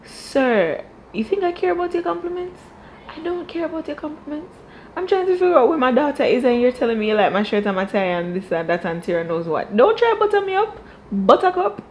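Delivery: hammed-up huffy dad brushing off flattery; mock irritated father voice; angry father. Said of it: "And the father's like".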